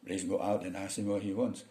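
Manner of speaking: a lightly voiced native English read of the boss's order at natural speed; native English speaker. Shown as a demonstration. A teacher showing the class how a native English speaker gives this order. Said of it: "orang bule ngomong pakai bahasa, bahasa Inggris ini".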